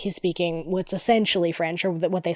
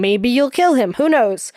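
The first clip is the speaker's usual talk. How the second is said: shrugging mock order; 5 semitones higher, 5 dB louder than usual. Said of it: "That's just you going".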